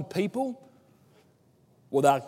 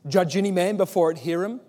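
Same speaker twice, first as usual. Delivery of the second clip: nervous Nicodemus; 2 semitones higher, 5 dB louder than usual. Retold or imitated. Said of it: "he says".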